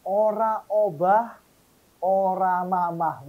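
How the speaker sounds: unhurried Javanese recitation of "Ora obah, ora mamah", each word spaced out; lambat, logat Jawa; Javanese proverb, slow. Shown as a demonstration. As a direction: say it slowly in Javanese, careful and even. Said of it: "kurang pas cara mengucapkannya, lagunya, dialeknya".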